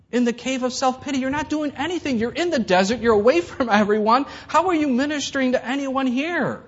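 God calling Elijah out of the cave, firm yet kind; God's gentle rebuke. Retold or imitated. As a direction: press him kindly to answer. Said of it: "And God says".

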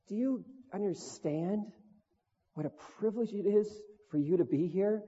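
a hint of a tender rebuke; voice of Jesus. Jesus gently asking David about his privilege, lightly voiced. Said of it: "I felt like Jesus said".

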